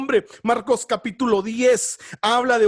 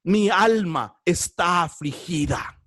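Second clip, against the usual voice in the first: sorrowful plea; 6 semitones lower, slower than usual. Acted. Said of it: "ella le dijo".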